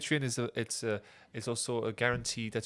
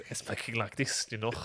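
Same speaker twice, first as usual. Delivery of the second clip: lightly put-on Belgian French; a hint of throaty Belgian; Belgian accent; 4 dB quieter than usual. Shown as a demonstration. Imitating his Belgian uncle, light Belgian accent. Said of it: "my uncle is Belge".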